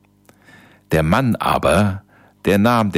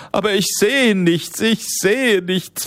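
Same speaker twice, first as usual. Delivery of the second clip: much higher, panicky pleading voice; 14 semitones higher than usual. Acted. Blinded husband pleads with his wife, panicked and high. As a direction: beg as the world goes dark. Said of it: "flehte der Mann".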